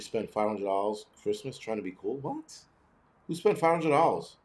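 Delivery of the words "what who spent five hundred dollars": sharp high disbelieving what, barely voiced; a stunned, squeaky what; incredulous what. Real, not acted. Shocked at people spending money on Segways, high incredulous what. Incredulous at five hundred dollars.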